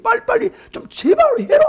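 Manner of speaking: high yelling demand; exasperated shout. Acted. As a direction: yell at him to hurry up. Eliphaz yells at Job.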